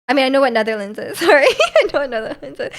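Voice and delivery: real laughter breaking into the words; amused, giggling as you clarify; laughing. Real, not acted. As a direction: laugh through an apologetic self-correction. Laughs while correcting own admitted ignorance.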